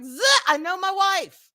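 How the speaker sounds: mock stern warning, high then settling; retold husband's warning. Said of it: "He's like".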